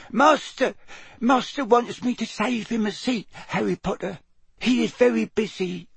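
high, loyal little servant; squeaky house elf. A narrator's reading. House elf explains saving master's seat, in a high squeak. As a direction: squeak it dutifully. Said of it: "a teeny quivering squeak of a voice".

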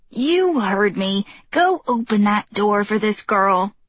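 put-on stern old woman. Old neighbor commanding.

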